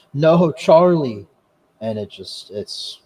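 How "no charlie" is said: loud, high, drawn-out cry; imitated scream. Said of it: "just screaming".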